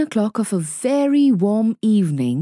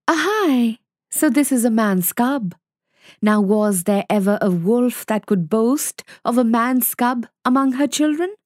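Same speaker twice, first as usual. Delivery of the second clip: higher, proud she-wolf; delighted mother wolf; 4 semitones higher than usual. Acted. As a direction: marvel at the man cub.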